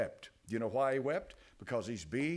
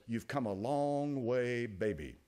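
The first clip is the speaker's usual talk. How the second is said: slogan read; slower than usual. Retold or imitated. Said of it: "that little slogan was".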